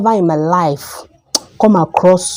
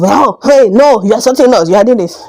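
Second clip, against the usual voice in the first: mock outraged retort; 4 semitones higher, 4 dB louder than usual. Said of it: "just have mind of".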